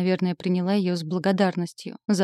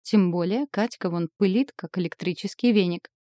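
usual speaking voice

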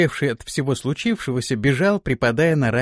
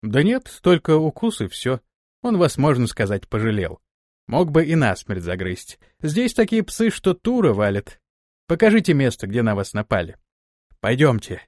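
reassuring. Acted. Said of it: "успокаивая".

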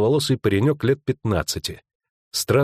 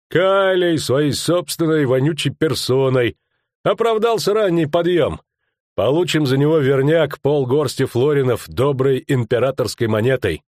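gloating rustic thug; 5 semitones higher than usual. Acted. Fat man gloating about the reward, gloating rustic voice. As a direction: crow over the catch.

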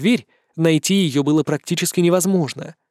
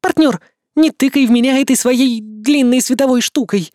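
high, hissing she-demon voice; hissing demoness; 8 semitones higher, 4 dB louder than usual. Acted. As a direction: hiss it out like a demoness. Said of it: "прошипела демоница".

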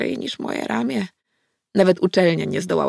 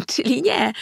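giggle, then higher-pitched words; tipsy giggle; 6 semitones higher than usual. A narrator's reading. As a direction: giggle lightly as if a little drunk. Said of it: "zachichotała lekko podchmielona". (chichot lekko podchmielonej)

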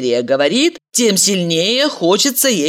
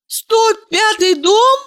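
slow high indignant echo; indignant woman; 3 dB louder, slower than usual. A narrator's reading. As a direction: Valeria echoing him indignantly. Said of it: "возмутилась Валерия".

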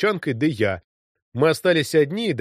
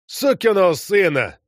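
a sharp, raised angry spit of a curse; 6 semitones higher, 4 dB louder than usual. A narrator's reading. Squadron commander cursing, spitting out a plum stone, angry. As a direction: snap it out crossly. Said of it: "сказал он сердито".

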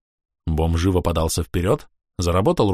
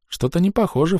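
high, scornful snort of a line; mocking disbelief; snorting scoff; 9 semitones higher than usual. A narrator's reading. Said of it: "фыркнул я".

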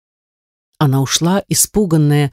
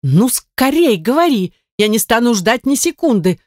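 insisting; 6 semitones higher than usual. A narrator's reading. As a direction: press the maid, drawing the words out. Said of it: "настаивала госпожа Монтони".

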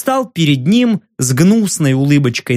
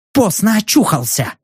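snapping retort; 4 semitones higher than usual. Acted. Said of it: "огрызнулся Тайл".

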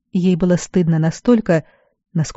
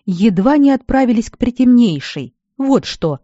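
barked; 6 semitones higher than usual. A narrator's reading. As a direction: snap it at her like a furious healer. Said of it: "рявкнул мэтр".

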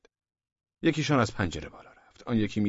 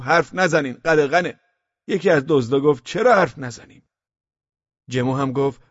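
high, loud character voice recounting trouble; distressed gendarme; 6 semitones higher, 7 dB louder than usual. A narrator's reading. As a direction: pour out the story, voice raised. Gendarme character tells what happened. (ژاندارم درمانده با صدای بلند)

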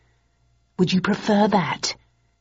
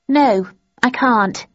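higher, louder, slow refusal; woman's voice; 6 semitones higher, 5 dB louder, slower than usual. A narrator's reading. Woman on the phone refusing, higher voiced. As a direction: refuse her flatly.

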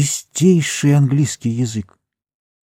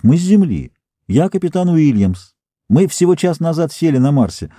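proud greeting; 5 semitones higher than usual. Acted. Captain greets Martian proudly.

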